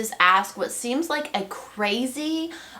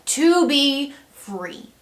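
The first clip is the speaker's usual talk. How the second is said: earnest prayer; 3 semitones higher, 5 dB louder, slower than usual. Acted. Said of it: "without us first saying".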